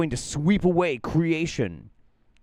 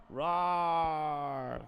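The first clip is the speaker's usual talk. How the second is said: playful fake dragon roar, softer; 7 dB quieter than usual. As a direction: try the dragon roar again properly. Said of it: "There we go".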